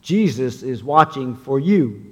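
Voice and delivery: spooky unseen voice from the shadows; a touch of a ghostly echo; disembodied voice. Acted. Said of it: "a strange, disembodied voice echoed from the dark".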